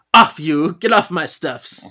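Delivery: loud acted scolding; shooing cats. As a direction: bark mock orders at pets to get off. Acting Phoebe shooing cats away.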